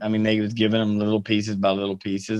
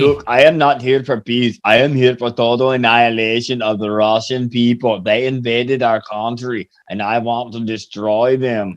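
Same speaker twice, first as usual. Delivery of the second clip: mock Zelensky speech; 3 dB louder than usual. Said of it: "That sounded more like Kissinger".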